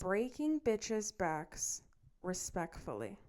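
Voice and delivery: slow, drawn-out mock macho guy; quoting his voice note. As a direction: drag it out like a smug guy bragging. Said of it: "He says".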